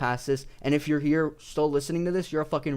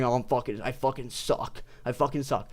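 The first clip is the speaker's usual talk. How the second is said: sag into a quiet I suck; mock defeated mumble; 4 semitones lower, 4 dB quieter than usual. Fighter mocking his own defeat, quiet deflated.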